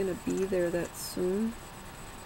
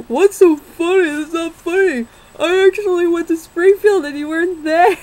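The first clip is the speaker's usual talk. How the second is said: high, loud furious rant; angry boyfriend yelling; 9 semitones higher, 12 dB louder than usual. Retold or imitated. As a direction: shout it like an offended ex. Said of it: "He's like".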